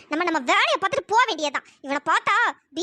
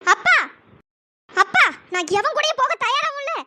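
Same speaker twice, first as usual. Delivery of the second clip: calling out upset; 3 semitones higher, 3 dB louder than usual. Acted. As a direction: cry out to her father. Daughter calls her father.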